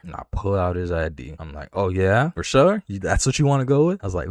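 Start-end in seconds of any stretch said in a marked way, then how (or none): 1.7-4.0 much higher and louder on "For sure?", sarcastic and fast; mocking taunt. Teller taunts the lying thief, waving his ID, mocking and high. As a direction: rub it in, mocking him.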